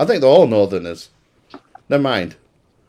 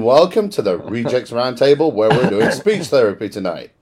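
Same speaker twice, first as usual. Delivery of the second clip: posh announcer voice. Acted. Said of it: "I'm putting my posh announcer voice on".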